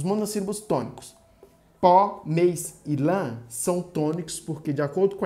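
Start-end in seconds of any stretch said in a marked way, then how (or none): 1.8-3.4 "pó, mês e lã" slow, loud and separate; forceful tonic monosyllables. Shown as a demonstration. Teacher showing stressed monosyllables, "pó, mês e lã" said with force. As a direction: put force on each of "pó", "mês", "lã". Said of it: "a gente coloca força pra pronunciar".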